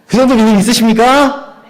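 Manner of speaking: 정도를 높이 올리며 크게 외쳐 묻기; 회중을 향해 더 높고 크게 외쳐; 크게 외치는 질문. Real, not acted. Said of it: "아멘!". (회중의 아멘을 끌어내려 더 크게 외치는 질문)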